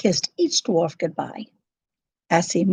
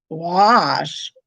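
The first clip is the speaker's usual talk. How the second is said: bewildered cry; 2 semitones lower than usual. A narrator's reading. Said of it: "cried the bewildered dwarfs".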